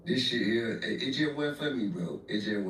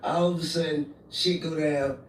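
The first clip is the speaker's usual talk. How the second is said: loud, hammering retold lecture; mama's scolding; 5 dB louder than usual. Mama telling her son how it goes, scolding. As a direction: imitate a mother laying it out. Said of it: "my mama said the same".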